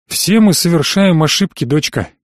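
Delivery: lightly voiced father, kind and patronizing; a hint of a fatherly, condescending kindness. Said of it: "добрый покровительственный голос". (слегка добрый покровительственный отцовский голос)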